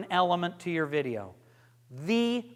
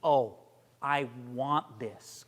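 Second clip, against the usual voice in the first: earnest; 7 semitones lower, 4 dB quieter, slower than usual. Shown as a demonstration. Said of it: "just totally".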